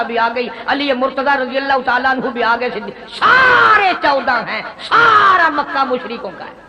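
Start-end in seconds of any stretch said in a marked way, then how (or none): 3.1-6.6 tag. Acted. Preacher cries out the odds.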